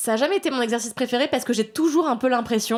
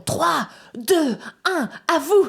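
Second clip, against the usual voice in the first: countdown call; 7 semitones higher, much slower than usual. Retold or imitated. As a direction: call the countdown like a press handler. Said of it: "qui te font".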